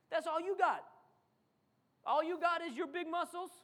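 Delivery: loud taunt. Acted. David jeering loudly at Goliath. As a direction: throw it back at him.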